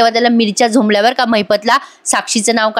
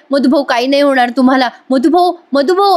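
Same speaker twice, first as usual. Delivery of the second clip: mild mock yell; 3 semitones higher than usual. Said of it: "मोठ्या मोठ्याने ती ओरडत असते".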